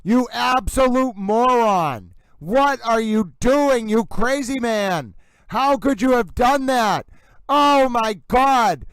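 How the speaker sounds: fed-up outburst at a blundering lawyer; exasperated berating. Real, not acted. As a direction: drag out the insult in disbelief. Berating lawyer on live stream.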